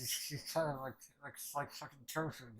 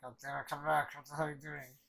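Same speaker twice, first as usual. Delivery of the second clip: mild retold shout, a bit louder; mock yell; 5 dB louder than usual. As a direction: call after him in a half-yell. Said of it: "Cuts and screaming out".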